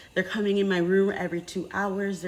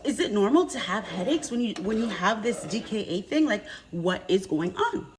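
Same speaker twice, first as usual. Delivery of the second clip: pleading with nurses; 4 semitones higher than usual. Retold or imitated. Begging the nurses about her headaches, raised and pleading. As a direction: plead with the doctors for an answer. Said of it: "I'm like".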